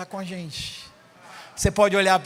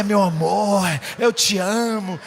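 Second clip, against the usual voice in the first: mock lover's shout; much slower than usual. Madman shouting at a tree.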